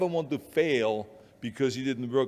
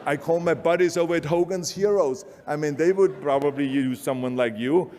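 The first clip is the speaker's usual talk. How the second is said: patronizing agent. Retold or imitated. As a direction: talk down kindly to him. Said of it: "that's what they said".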